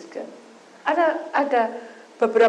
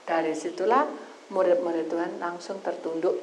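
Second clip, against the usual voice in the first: ordinary talk, nothing marked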